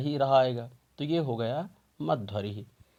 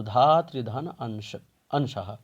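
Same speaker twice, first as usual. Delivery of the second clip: slowed repeat; slower than usual. Shown as a demonstration. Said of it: "धात्रिंश की हम संधि विच्छेद देखेंगे".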